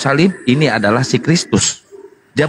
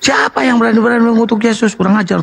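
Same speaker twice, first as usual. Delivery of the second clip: indignant; 10 semitones higher, faster than usual. Real, not acted. Indignant at cursing the Lord.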